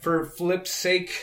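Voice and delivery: slow, drawn-out mock curse; catchphrase. Shown as a demonstration. Friend shares his go-to swear substitute, slow and deliberate. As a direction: stretch out the tame curse slowly. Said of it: "one of my go-to lines is".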